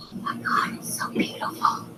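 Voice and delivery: real hushed whisper of wonder; whispering in awe at the sky; awed whisper. Real, not acted. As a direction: breathe it out in awe. Awed by rainbow overhead.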